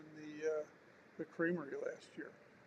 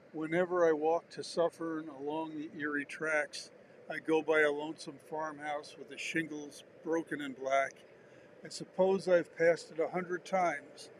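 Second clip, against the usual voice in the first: measured, slightly louder poetry reading; poem recital; 3 dB louder than usual. Acted.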